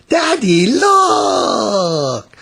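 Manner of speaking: put-on high, eager little girl calling daddy; excited child call. A narrator's reading. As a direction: show off the cart, thrilled. Child shows father cart.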